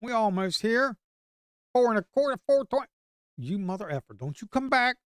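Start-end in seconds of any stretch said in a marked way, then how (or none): 1.7-5.0 yelling at chart. Real, not acted. Trader yelling at price chart.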